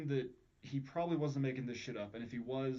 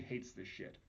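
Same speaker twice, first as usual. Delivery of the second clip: whispered; 4 semitones lower, 10 dB quieter, slower than usual. Real, not acted. Host stressing Strieber's aversion.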